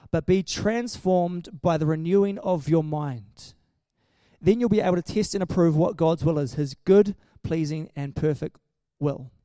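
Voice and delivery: measured, emphatic Bible reading; a preacher reading Romans aloud; scripture reading. Acted. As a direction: read it out to the church with weight. Reads scripture to congregation.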